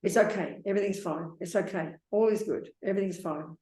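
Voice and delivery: calm, falling "It's okay. Everything's fine"; soothing self-talk. Shown as a demonstration. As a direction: settle your own mind gently. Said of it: "Like that".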